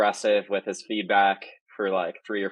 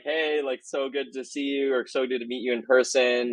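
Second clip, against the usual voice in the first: high, bubbly retold hello; excited greeting; 5 semitones higher than usual. Retelling how he greeted the apologising fan, high and excited. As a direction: gush over meeting the fan.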